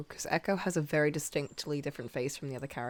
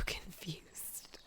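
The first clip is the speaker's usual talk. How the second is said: laughing; 12 dB quieter than usual. Real, not acted. Laughing at own drawing struggle.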